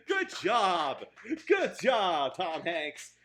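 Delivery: loud, mock-congratulatory cheer; sarcastic congratulations. Real, not acted. Reviewer jeering at an actor's bad year, sarcastic. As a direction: praise him loudly and don't mean it.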